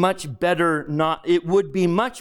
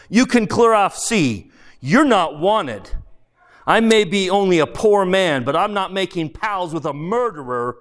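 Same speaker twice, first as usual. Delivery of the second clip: indignant ghost; 4 semitones higher than usual. Acted. Ghost dismisses his former workman, indignant. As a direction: send him packing with contempt.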